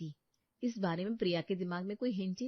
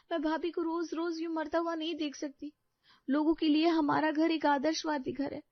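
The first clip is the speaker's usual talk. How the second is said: determined Ankita; 10 semitones higher than usual. Acted. Ankita insists to husband.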